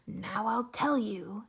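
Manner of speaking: put-on slow, hushed old recluse; a hint of a secretive old hermit; lightly voiced Onceler. Onceler speaking down the whisper phone, lightly hushed. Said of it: "old Onceler whispers are not very clear".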